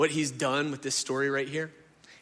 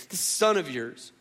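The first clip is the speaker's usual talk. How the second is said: resentful; 2 semitones higher, 4 dB louder than usual. Acted. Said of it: "He won't even say his brother's name".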